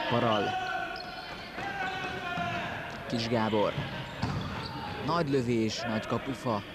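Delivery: rising excitement at a big shot; excited sports commentary. Real, not acted. Shot hits the post.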